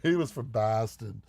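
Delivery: amused imitation of a Boston accent. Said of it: "basically slapped with accent".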